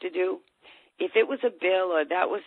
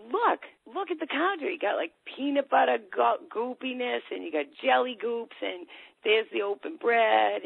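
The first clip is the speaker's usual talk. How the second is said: higher, pointed parent scolding; mock scolding parent; 4 semitones higher than usual. Parent shows the ten-year-old the messy counter, mild scold. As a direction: point out the mess, exasperated.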